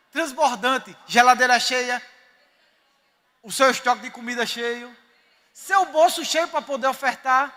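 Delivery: preaching at full force. Real, not acted. Pastor rallying his church about prosperity, loud fervent preaching. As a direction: proclaim it like a fired-up preacher.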